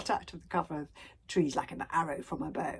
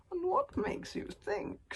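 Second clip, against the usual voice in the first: higher, slow, sneering dragon; 12 semitones higher, 6 dB quieter, slower than usual. A narrator's reading. One Eye scorning Hiccup's plea, sneering. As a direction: drawl it with contempt. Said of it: "sneered One Eye".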